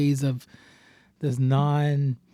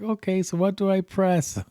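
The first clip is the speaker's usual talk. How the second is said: put-on old man voice; 5 semitones higher than usual. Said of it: "acts like an old guy".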